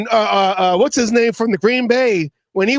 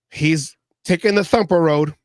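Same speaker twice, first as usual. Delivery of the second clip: ordinary talk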